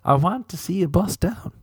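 mock marketing man; pitchy bus-down pitch. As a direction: sell it like a goofy jingle. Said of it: "And I'd be like".

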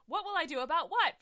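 hammed-up Victoria, puzzled; mock shrill cat queen. Reading fan fiction, voicing Victoria confused.

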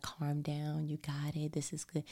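calm her down like a mother; motherly. Retold or imitated. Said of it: "almost like a motherly".

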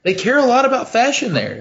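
high put-on Italian voice; mock Italian voice praising fashion; hammed-up Italian accent. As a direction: gush about fashion like a vain Italian.

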